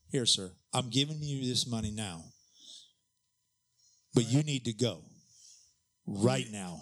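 measured firm order with long pauses; controlled anger. Retold or imitated. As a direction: order him out, restrained, pausing before each push. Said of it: "I'm shaking now".

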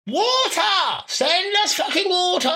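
very high squealed plea; desperate arsehole voice. Pretend. Burning arsehole pleading for water, squealing. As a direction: squeal for help in a cartoon falsetto. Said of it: "A Dog's arsehole was saying".

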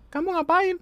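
put-on very high falsetto girl; squeaky high girl voice. Shown as a demonstration. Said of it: "Ah, enggak".

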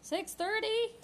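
high, loud outraged "six thirty?"; shocked disbelief. Acted. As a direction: gasp at the idea, pitch jumping. Shocked at early wake time.

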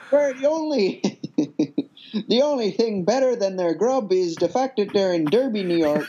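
pirate voice. Pretend. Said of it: "needs to be done in a pirate voice".

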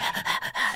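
breathy imitated dog pant. Dog watching the bones being waved, imitated panting. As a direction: pant quickly like an eager dog. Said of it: "and the dog's like".

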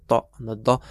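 "dot" and "da" made as Arabic throat consonants; Arabic guttural sounds. Shown as a demonstration. Teacher showing learners sounds English lacks, guttural "dot" and "da". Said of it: "They're guttural sounds which don't exist in English".

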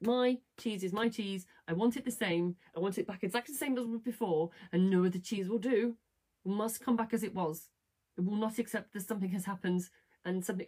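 lightly voiced stubborn complainer; insist, with mild mock petulance; stubborn character. Character refusing to accept his cheese is gone, lightly acted stubbornness. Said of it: "I'm doing this like it's him".

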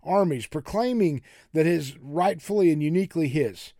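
Elijah's self-pitying protest; woe is me. Acted. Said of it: "This is a real woe is me moment".

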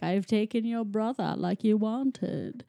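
lightly voiced Goblin King impression; a rock singer. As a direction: play a hint of the rock-star villain. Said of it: "great rock-star impression".

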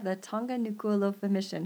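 attempted Tongan accent on Nuku'alofa. Shown as a demonstration. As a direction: try saying Nuku'alofa the Tongan way. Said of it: "my Tongan accent leaves a lot to be desired".

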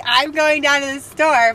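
put-on Cockney accent. Co-host retrying a Dickens character, shaky Cockney accent. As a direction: try a drawn-out Cockney line. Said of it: "her Cockney accent".

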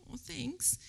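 breathy, hushed thanks; touched whisper. Retold or imitated. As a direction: whisper it, moved. Surprised reply to daughter.

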